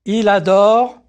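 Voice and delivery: ordinary delivery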